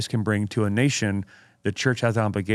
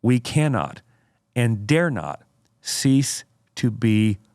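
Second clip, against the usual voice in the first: slow, deliberate oratorical reading; dramatic quote reading; slower than usual. Acted. Host reads Spurgeon's quote to co-host, dramatic oratory. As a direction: read it out with weighty pauses. Builds the quotation to its point.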